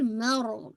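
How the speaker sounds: मर with a light m and held r; light meem. Shown as a demonstration. Teacher models a light meem, careful recitation. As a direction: start मर lightly, then settle on r. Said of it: "मीम को light".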